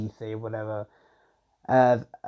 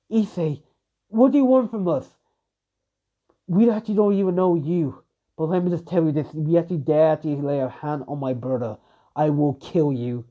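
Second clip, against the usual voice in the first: serious but scared; 3 semitones higher than usual. Acted. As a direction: threaten him firmly while terrified. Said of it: "in a serious tone, but also a scared tone".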